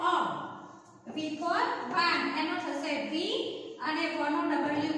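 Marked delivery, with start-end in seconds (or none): 0.1-0.1 અ as a lone short "a" vowel; letter sound. Shown as a demonstration. Teacher giving the sound of U, અ said as short "a". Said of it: "એનો ઉચ્ચાર થશે".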